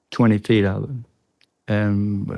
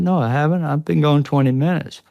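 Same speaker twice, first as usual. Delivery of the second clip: retold protest; 5 semitones higher than usual. Arguing he was gone briefly.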